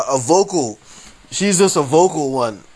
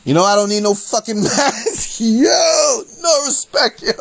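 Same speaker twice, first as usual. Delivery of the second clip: higher, laughing mock rant; mock heckler rant; 6 semitones higher than usual. Imitating a maskless heckler, mock rant. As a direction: play the defiant heckler through laughter. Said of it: "the heckler's like".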